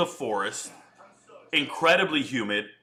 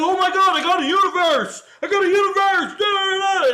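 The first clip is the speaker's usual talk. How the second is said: very high, loud squealing shout; mocking TikTok streamers; 14 semitones higher, 7 dB louder than usual. Mocking TikTok kids who scream over a tip, shrill and loud. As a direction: scream like an overexcited kid streamer. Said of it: "How do they act on TikTok".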